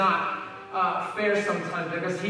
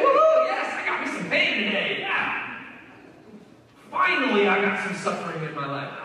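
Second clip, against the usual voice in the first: mock celebration. Preacher mocks boasting about pain, in hammed-up cheer.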